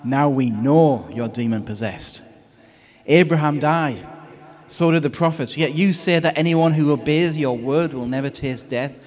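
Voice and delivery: indignant crowd. Retold or imitated. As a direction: scoff at him as a crowd. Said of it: "they exclaimed".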